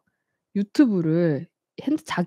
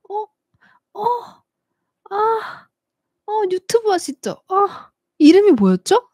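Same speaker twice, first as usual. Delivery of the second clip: put-on much higher, rising, fumbling drunk voice; lightly played drunk woman asking; tipsy stranger; 14 semitones higher, 4 dB louder, slower than usual. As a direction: imitate a tipsy fan groping for a name. Drunk stranger demands her name.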